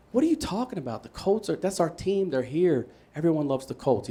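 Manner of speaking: high, protesting disbelief; disbelieving kid. Retold or imitated. Son arguing with dad about the Colts, disbelieving. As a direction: refuse to believe the news. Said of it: "and I'm like".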